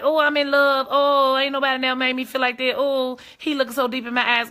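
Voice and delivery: lightly mocked swooning in love; mock lovestruck. Mimicking a woman fallen for a man, mock lovestruck. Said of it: "you gonna be like".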